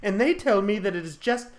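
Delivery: explain, sinking at the end; mock-tragic confession; aggrieved Fern. Fern pleads her infertility.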